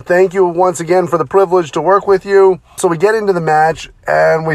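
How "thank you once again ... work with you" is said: polite rookie. Retold or imitated. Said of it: "I'm like".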